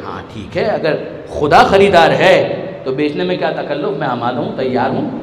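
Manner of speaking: humble low acceptance. Acted.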